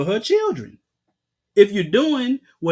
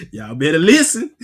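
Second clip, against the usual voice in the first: laughing through it, lower; laughing warning; 4 semitones lower, 5 dB louder than usual. Real, not acted. Preacher laughing as he warns the listeners. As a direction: chuckle out the warning.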